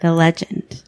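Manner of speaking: dramatic whispered title. Pretend. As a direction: hush it like a spooky reveal.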